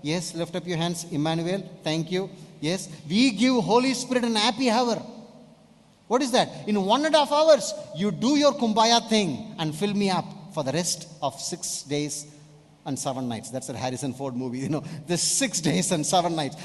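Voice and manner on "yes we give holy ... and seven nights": much louder and higher, mocking the Sunday crowd; loud mock churchgoer. Preacher mocking churchgoers who want a quick service, loud and high. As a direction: shout out the lazy believer's demand with scorn.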